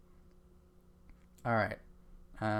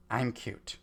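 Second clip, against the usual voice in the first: cute line. Pretend. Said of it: "And say the line".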